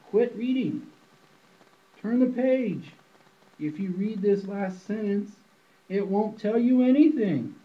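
high, loud shooing the reader away; mock stern order. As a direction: shout at the reader to quit, hammed up. Narrator scolds reader to stop.

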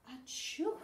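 loud, high acted sneeze; sneezing. A narrator's reading. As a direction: burst out with a big story-time achoo. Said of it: "sneezed Walrus".

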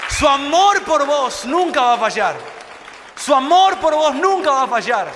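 fervent preacher voice; preaching. Acted. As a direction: proclaim it to the whole church. Preaching at full force.

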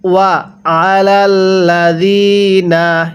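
slow chant of ওয়া আলাল্লাযিনা with held doubled ল; Quran recitation. Shown as a demonstration. Teacher recites the verse for students, slow melodic chant. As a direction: stretch ওয়া আলাল্লাযিনা slowly. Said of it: "কিভাবে শিখব?".

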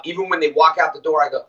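ordinary delivery

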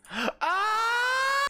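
high, sudden gasp into a cry; gasp, then yelp high; startled cry. Real, not acted.

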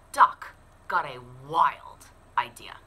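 hushed storyteller whisper; secretive whisper. A narrator's reading. Storyteller builds suspense.

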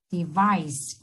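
"device" stressed on "vice"; teacher's demo of de-VICE; second-syllable stress. Shown as a demonstration. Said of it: "cũng trọng âm rơi vào âm tiết thứ hai".

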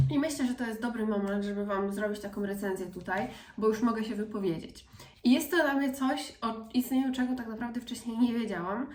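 soft, hushed review; soft-spoken. Real, not acted. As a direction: talk softly, almost murmuring.

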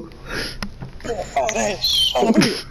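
put-on slow airy creepy old man wheeze; lightly voiced creepy old man; Herbert the Pervert voice. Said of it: "I could do Herbert the Pervert".

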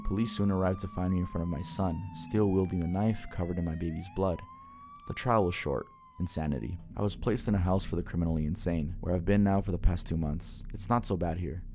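measured horror-story narrator; story narration. A narrator's reading. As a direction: read it as a first-person scary story. Reads horror story aloud.

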